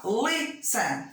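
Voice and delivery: "listen" split LI... sen; stress on first syllable. Shown as a demonstration. Teacher giving pupils an example, stress on first syllable. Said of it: "A primeira é forte".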